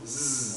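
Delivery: Z as a long buzzing zzz; Z sounded as a lone consonant; letter sound Z. Shown as a demonstration. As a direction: buzz Z without naming the letter. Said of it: "say the sound Z".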